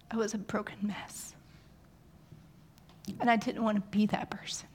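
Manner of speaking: a soft, breathy confession; hushed whisper of confession. Real, not acted.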